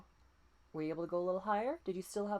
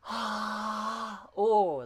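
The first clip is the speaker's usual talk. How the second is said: airy voiced ha, louder; breathy voice; 3 semitones higher, 8 dB louder than usual. Shown as a demonstration. Coach showing the breathy voice warm-up. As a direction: breathe out with a bit of sound. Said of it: "and we go".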